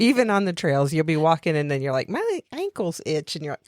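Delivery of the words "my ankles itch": Southern drawl on "My ankles itch"; slow Southern twang; Southern accent. Retold or imitated. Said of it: "You said that in a Southern accent and everything".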